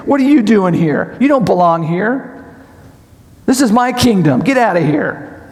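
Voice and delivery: mildly angry challenge; mock angry. God challenging Satan in his kingdom, mildly angry. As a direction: confront an intruder, with only a touch of anger. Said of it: "Was he angry?".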